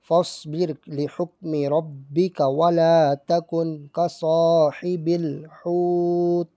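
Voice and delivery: slow, drawn-out tajweed chant; Quran recitation. Shown as a demonstration. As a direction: chant each word slowly with long vowels. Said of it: "یہاں رک کے بتا دیتا ہوں".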